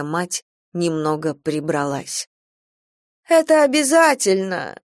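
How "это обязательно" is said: high whiny moan, louder; a put-upon groan at going out; groaning protest. Acted. Stepmother groans at going to church, whiny. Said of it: "простонала она".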